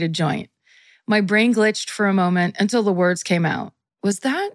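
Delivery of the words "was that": slow, raised, hesitant question; stunned disbelief. Acted. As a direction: let the name dawn on you slowly. Stunned question read in story.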